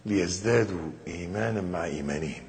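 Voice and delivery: low, softened Quranic quotation; verse recitation. Acted. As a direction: recite the verse with measured reverence. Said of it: "قال تعالى".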